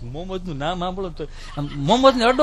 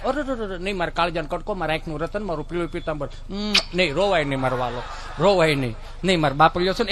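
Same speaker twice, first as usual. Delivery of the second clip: soft, much quieter cooing; soothing mother; 4 semitones lower, 5 dB quieter than usual. Retold or imitated. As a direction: hush the little lion tenderly. (ધીમા અવાજે પંપાળતી મા)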